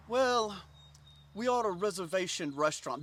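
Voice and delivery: lightly voiced snooty French host; a hint of French formality; debonair French host. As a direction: lightly play a French maître d' stalling. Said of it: "you know, very French debonair".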